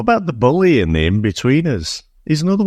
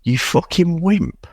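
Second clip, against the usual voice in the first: higher, slow mocking quote; mocking repeat; 6 semitones higher than usual. Podcaster ridiculing a cheesy line to co-host, mocking. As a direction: draw out the film insult in disbelief.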